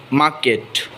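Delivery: "market" said as MAH-ket; silent R. Shown as a demonstration. Teacher showing silent r, "market" as mah-ket. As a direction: say "market" with no r sound. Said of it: "keep the ra silent".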